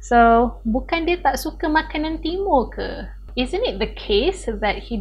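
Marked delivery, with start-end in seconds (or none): 0.7-3.1 higher mock-innocent question; sarcastic. Shown as a demonstration. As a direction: pretend you think he dislikes it. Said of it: "saying it in a sarcastic way".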